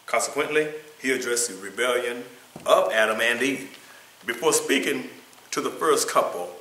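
emphatic, projected scripture and lesson reading; reading aloud. Acted. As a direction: read it out firmly, phrase by phrase.

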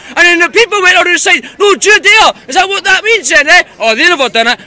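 loud, heated rant at the street campaigners; angry shouting. Real, not acted. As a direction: shout it at them in real anger. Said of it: "So what if I'm shouting?".

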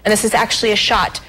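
measured, evenly paced presenter read; news feature read. Real, not acted. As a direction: read it out like a TV history segment. Reads a history segment.

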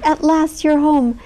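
joyful greeting. A narrator's reading. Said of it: "the twins cried".

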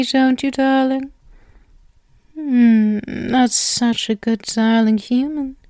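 a lightly voiced doting spider captor, sweetly menacing; possessive spider captor. Arachne partner feeding her bound human, lightly voiced doting menace. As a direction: coo over the captive like a smug owner.

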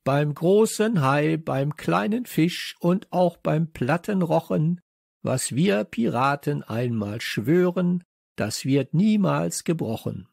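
proclaimed pirate oath. A narrator's reading. Child swearing friends to secrecy, proclaimed oath. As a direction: chant it out like a solemn oath. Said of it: "rief ich so laut ich konnte".

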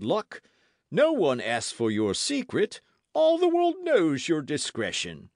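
hearty, emphatic, blustering musketeer; exasperated Porthos. A narrator's reading. Porthos scolds Aramis over his lady friends, exasperated. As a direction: pile up the reproaches with mounting force.

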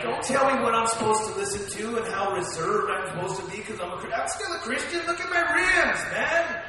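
lightly voiced defiant prodigal son, pitch jumping up near the end. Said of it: "remember the prodigal son?".

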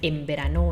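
"en verano" said as "em berano"; n read as m. Shown as a demonstration. Spanish teacher showing how it is really read, n as m. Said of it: "มันจะอ่านเป็น".

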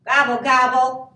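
loud, grumpy gobbling; grumbling turkey. A narrator's reading. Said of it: "grumbled Turkey".

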